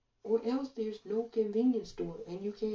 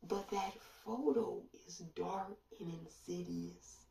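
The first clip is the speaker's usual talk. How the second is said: hushed, ominous whisper; 6 dB quieter than usual. Real, not acted. To viewers about a dark photo, a hushed whisper. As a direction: breathe it out like a secret.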